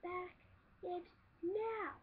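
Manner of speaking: high, pushy demand; mock high sister demand. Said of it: "She's like".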